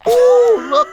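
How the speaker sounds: put-on high squealing ooh from the kids; a kid's high excited ooh. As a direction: squeal it like a delighted child. Kids in pool spot seaweed.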